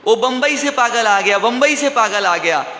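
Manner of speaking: half-hearted shout, as if warning the street; retold shouting. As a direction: imitate someone crying out an alarm. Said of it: "वो चिल्लाने लग गया".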